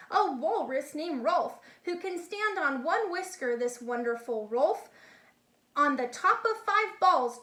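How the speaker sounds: lively, singsong picture-book reading; animated storybook read-aloud; reading to children. A narrator's reading. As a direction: read it like a bedtime rhyme book. Reads Dr. Seuss to children.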